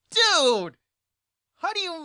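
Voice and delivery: high, loud exclamation; exasperated dude. Real, not acted. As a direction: bark it at the friend. Exasperated at buddy.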